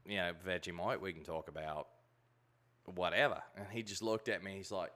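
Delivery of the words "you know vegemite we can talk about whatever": lightly voiced Australian accent, lower; offhand Aussie patter. Retelling banter with an Australian musician, mild Aussie accent. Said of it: "Australian accent really good".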